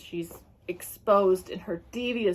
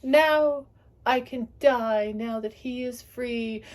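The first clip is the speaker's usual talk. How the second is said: dying rambling; 4 semitones higher, 5 dB louder than usual. Retold or imitated. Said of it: "she was just going word salad, she was like".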